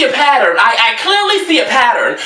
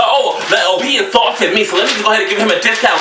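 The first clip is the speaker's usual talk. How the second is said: fast mock shouting imitation; 2 semitones lower, faster than usual. Mocking the buyer who wants a discount, fast mock shout. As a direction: rattle it off in a mock voice. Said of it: "you think that by insulting".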